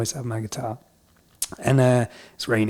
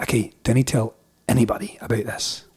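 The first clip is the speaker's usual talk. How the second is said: confiding Scottish officer, lightly imitated; wee Scottish accent. Police letting hitchhiker in on it, in Scottish accent. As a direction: swear him to secrecy in Scots. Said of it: "do the rest in a wee Scottish accent".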